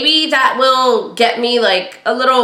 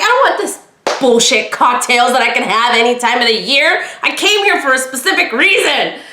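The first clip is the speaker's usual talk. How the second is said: retold indignant rant. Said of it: "I was so mad".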